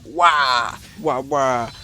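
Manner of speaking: imitated hero's "wah" noises; mock power cry. Co-host acting out the hero using Hammond, mock power cry.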